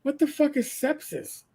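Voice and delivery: high, puzzled disbelief; like reading a baffling word on discharge papers; baffled. Retold or imitated. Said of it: "and then I had to go".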